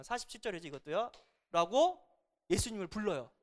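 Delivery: ordinary delivery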